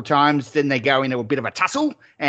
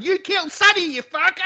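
mock yell.

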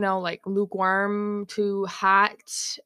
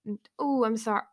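fake apology. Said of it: "No, you're not sorry".

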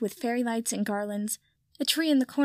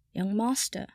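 intoning; slower than usual. Acted. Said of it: "Kipper intoned".

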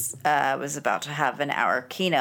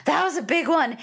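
mock awe; 9 semitones higher than usual. Mock-dramatic reaction to earthquake.

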